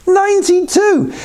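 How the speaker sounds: high-pitched burst of disbelief; incredulous high exclamation; amazed exclamation. Acted. Amazed repeat of winner's age.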